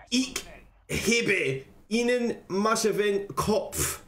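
slow, deliberate German accent; amateur German accent, word by word; put-on German accent. Shown as a demonstration. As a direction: read it slowly in your best German accent. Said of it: "I'll get my German accent on".

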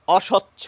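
অস্বচ্ছ said oshocchho, single s; অস্বচ্ছ, no doubled s. Shown as a demonstration. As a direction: say অস্বচ্ছ as o-shocchho. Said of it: "আমরা বলছি".

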